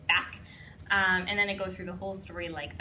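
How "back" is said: imitated slap-shut shout.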